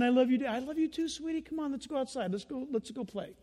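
soft, gentle dad voice; tender father. Retold or imitated. Father gently inviting the forgiven child to play, soft. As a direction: coax the child kindly.

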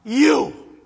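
very slow, loud, "so" stretched and rising; God declaring love to everyone, slow loud cry; slow declaration of love. Acted. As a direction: declare it with full force, stretching "so". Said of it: "And God says".

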